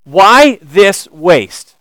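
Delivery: slow, scornful drawn-out question; indignant. Retold or imitated. Disciples questioning the wasted perfume, slow and scornful. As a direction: let each word hang in disgust. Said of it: "they ask a horrific question".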